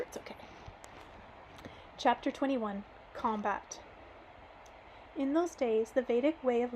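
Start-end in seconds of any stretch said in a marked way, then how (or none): 0.0-0.3 soft whisper. Real, not acted. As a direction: drop to a whisper. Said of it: "but if I whisper".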